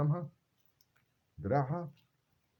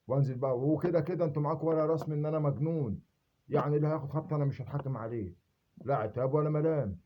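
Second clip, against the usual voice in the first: higher and louder, worked up; heated rant; 4 semitones higher, 3 dB louder than usual. Real, not acted. Ranting at those who call him mad, higher and heated. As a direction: let the anger climb in pitch. Angry rant at the intelligence agencies.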